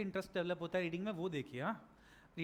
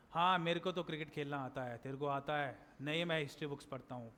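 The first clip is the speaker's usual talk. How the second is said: low, softer single-tone chat; monotone; 7 semitones lower, 5 dB quieter than usual. Shown as a demonstration. Teacher demonstrating a boring conversation between friends, in monotone. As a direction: drone it all on one note. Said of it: "बिल्कुल monotone में".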